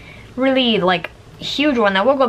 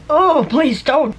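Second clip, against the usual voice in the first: higher, louder, slow pleading wince; wincing plea; 7 semitones higher, 3 dB louder, slower than usual. Retold or imitated. Patient to mom cleaning her port, wincing plea. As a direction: beg her to stop, dreading the touch.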